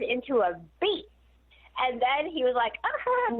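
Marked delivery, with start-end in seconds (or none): 2.8-3.3 a short high-pitched grunt as Tyson. Retold or imitated. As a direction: mimic Tyson's sudden grunt. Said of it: "So Mike Tyson talks like this".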